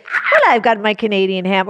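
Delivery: light mock Canadian accent. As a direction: do a hint of a Canuck accent. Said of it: "such a Canuck to be like".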